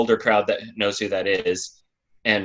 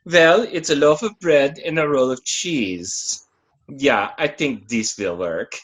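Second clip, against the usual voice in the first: put-on German accent; 3 semitones higher than usual. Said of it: "I need to work on my German accent".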